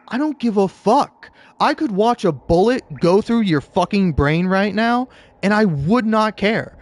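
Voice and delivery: mock-defiant outburst; heated rant. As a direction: tell the manager off with heat. Angry rant at manager retold.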